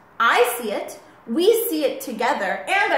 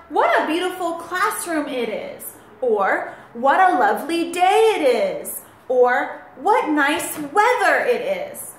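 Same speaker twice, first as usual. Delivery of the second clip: mild excitement. Shown as a demonstration. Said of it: "in an excited voice".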